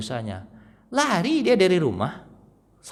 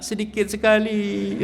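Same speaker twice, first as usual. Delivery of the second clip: laughing mock complaint; 6 semitones higher than usual. Mother mocks small salary.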